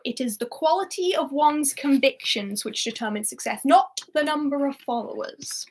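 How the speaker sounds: a hint of the film character's delivery, measured and solemn; said the way the film says it. Shown as a demonstration. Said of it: "That's how it's said, kind of".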